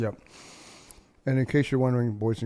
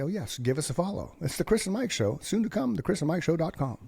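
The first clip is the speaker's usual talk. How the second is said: show outro voice; 6 semitones higher than usual. Pretend. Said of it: "And I say".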